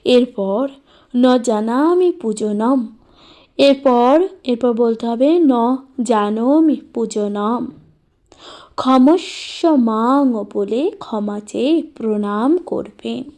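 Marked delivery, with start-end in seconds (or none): 1.2-2.9 slow, measured Sanskrit recitation; mantra recitation. Shown as a demonstration. Teacher telling worshippers what to say next, slow recitation. 5.4-10.4 slow, drawn-out Sanskrit recitation; mantra recitation. Shown as a demonstration. Teacher showing how to ask Mahadev's forgiveness, slow recitation.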